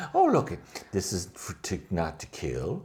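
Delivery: slow, drawn-out awed aristocrat; mock Trelane. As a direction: savor the weapon slowly, in a put-on voice. Trelane admiring weapon.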